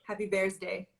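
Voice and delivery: put-on softly repeated "Bears Day" for BIRTHDAY, lightly Farsi-accented; mother's Farsi accent. Repeating mother's wish for a friend, light Farsi accent. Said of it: "as my mother would say".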